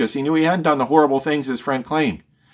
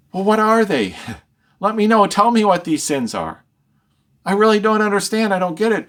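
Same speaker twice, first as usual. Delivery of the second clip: Job begging God to name his sins; bewildered Job; 6 semitones higher than usual. Acted. Job asks which sins.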